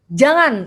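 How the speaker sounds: "Jangan" lifted, then falling to a firm end; exclamation intonation. Shown as a demonstration. Teacher showing a student what intonation means, exclaimed. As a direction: exclaim "Jangan" with a clear rise and fall. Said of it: "itu kan intonasi ya".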